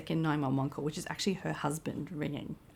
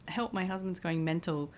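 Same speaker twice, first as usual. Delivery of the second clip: mock British accent, rising high and louder at the end; 5 semitones higher, 6 dB louder than usual. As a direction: play a panicked Englishwoman in a British accent. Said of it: "in a British accent".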